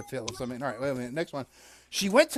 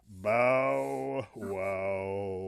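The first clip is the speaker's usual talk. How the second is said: dog bark; 12 semitones lower, 4 dB quieter than usual. Acted. Dog answers the dame.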